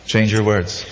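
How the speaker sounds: calm advice. Retold or imitated. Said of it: "I tell them".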